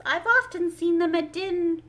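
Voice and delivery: stops herself mid-word; hasty self-check. A narrator's reading. Alice catching a slip before the Mock Turtle, breaking off. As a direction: cut off the word abruptly. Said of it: "she checked herself hastily".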